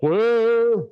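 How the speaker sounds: loud call. Real, not acted. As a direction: call out clear loudly, high. Instructor calls clear before shock.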